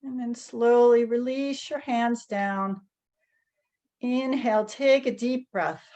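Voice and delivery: calm, unhurried guiding with long pauses; guided meditation. Real, not acted. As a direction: gently lead a group through each movement, leaving space between phrases. Leads guided tapping meditation.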